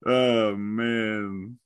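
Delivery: ordinary delivery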